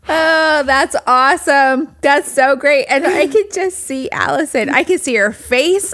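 delighted. Real, not acted. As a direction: gush with real delight. Cohost delighted by story.

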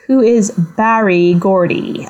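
mid-Atlantic accent. Shown as a demonstration. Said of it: "that's my attempt at a mid-Atlantic accent".

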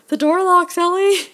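high, loud movie-quote cry; mock exclamation. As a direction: exclaim it like an excited film hero.

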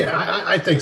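talking through a mouthful of crackers; chewing while answering; mouth full. Real, not acted. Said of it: "I was eating a Cheez-It".

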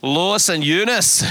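drawn-out Scottish rendering of the names; Scottish accent. Shown as a demonstration. Preacher playfully naming Timothy's grandmother and mother, Scottish accent. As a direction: say both names slowly, like a Scot. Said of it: "Say it like a Scottish person".

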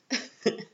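brief breathy laugh; quick amused chuckle; short laugh. Real, not acted. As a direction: laugh at your own silly impression. Laughs at own impression.

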